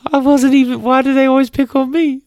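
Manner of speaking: very high, loud whiny victim voice; hammed-up whimpering complaint; self-pitying whine. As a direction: wail it like a bullied sad sack. Retold meme passenger self-pity.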